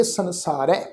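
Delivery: ਸੰਸਾਰ ਹੈ joined as "sansaarai"; ending with dulavan. Shown as a demonstration. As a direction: end ਸੰਸਾਰ ਹੈ on an "-ai" vowel. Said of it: "ਉਲਾਰ ਦੁਲਾਵਾਂ".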